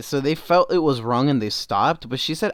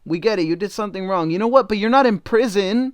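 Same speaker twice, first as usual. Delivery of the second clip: exasperated, higher-pitched comeback; indignant retort; 6 semitones higher than usual. Real, not acted. Host answering the TikToker's excuse, indignant retort. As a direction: fire back with heated exasperation.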